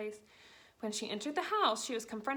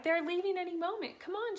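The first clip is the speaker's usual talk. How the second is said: urgent; 8 semitones higher than usual. A narrator's reading. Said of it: "she shouted".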